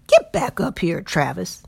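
hollering him back to the wagon; yelling. Acted. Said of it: "the other man yelled".

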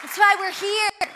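rally the crowd on this line; rallying shout. Real, not acted. Preacher rousing the congregation, shouted.

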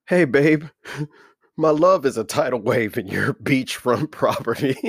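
can barely get the line out for laughing; laughing through the line. Real, not acted. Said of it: "I can't even say it".

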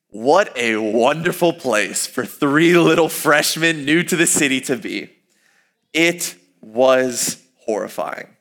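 slow, dry ironic praise; sarcastic. Real, not acted. Describing the seedy corner to listeners, slow and sarcastic. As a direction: drag it out with mock cheer.

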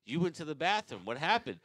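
confused friend. Retold or imitated.

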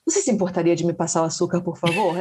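rattled off fast and formal; fast, stiff politeness; overly formal request. Shown as a demonstration. Asking her family for sugar: fast and overly formal. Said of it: "I transfer it to Portuguese".

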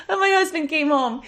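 laughing while telling. Real, not acted. Story retold through laughter.

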